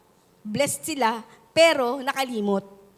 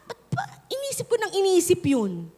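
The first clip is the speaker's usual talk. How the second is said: high, amused disbelief; incredulous relief; 9 semitones higher than usual. Retold or imitated. Believer looking back on old worries, high incredulous relief. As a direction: squeak out a laughing why-did-I-worry. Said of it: "sasabihin mo".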